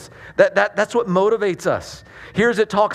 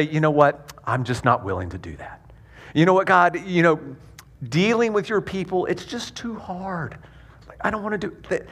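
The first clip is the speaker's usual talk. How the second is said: mock reluctant whine. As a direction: play a half-hearted believer who can't be bothered. Acted reluctant believer to God.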